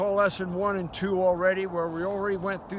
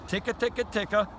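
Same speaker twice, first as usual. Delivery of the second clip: feeding chuckle ticka; 2 semitones higher than usual. Shown as a demonstration. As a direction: rattle off ticka ticka. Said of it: "the feeding chuckle".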